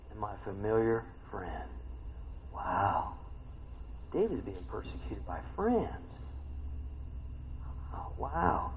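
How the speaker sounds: low, hushed, weighty; sombre reading. Real, not acted. Preacher reading of David betrayed by his friend, hushed and sombre. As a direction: drop low and quiet as the betrayal sinks in.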